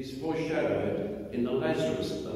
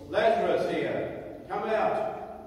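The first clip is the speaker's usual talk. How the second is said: loud cry; 6 semitones higher than usual. A narrator's reading. Jesus calling Lazarus out of the tomb, loud cry. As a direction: call out high and commanding. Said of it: "he cried in a loud voice".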